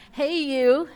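loud, high call of the demon; demon yelling. Retold or imitated. Preacher voicing the demon shouting at Jesus, loud yell. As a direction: yell it out at the top of your voice. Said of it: "at the top of his voice".

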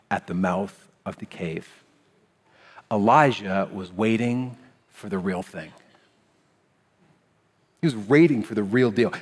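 usual speaking voice

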